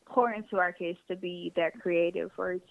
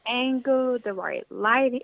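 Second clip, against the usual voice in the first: words broken by hiccups; hiccuping through a list; slower than usual. Real, not acted. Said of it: "I start hiccuping".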